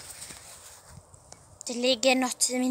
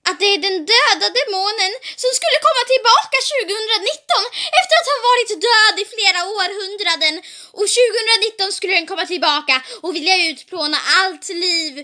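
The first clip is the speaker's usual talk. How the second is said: dramatisk högläsning; 3 semitones higher, faster than usual. Acted.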